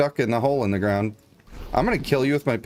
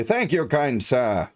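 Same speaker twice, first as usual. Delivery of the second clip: hammed-up old-timey adventurer; 2 semitones higher, slower than usual. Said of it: "And you'd say".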